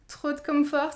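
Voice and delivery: "Trop de confort" meant as the English "Throat Comfort", said with a French th and r and a half laugh; embarrassed attempt at the English "Throat Comfort"; French-accented English. Real, not acted. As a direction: stumble over the English name with a laugh. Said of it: "je suis désolée pour mon accent".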